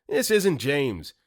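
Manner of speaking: a hint of a hammed-up thug; tough-guy persona. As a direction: lean into a cheesy gangster reveal. James reveals his robber persona.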